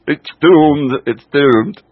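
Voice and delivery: loud, high Scottish wail; Fraser impression. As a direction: wail it like a doomed old Scot. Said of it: "John Laurie, the Scot".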